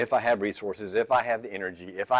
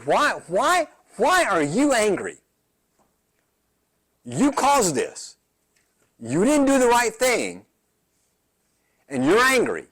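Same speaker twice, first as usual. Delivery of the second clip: God questioning; 7 semitones higher than usual. Retold or imitated. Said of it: "He looks at Cain and says".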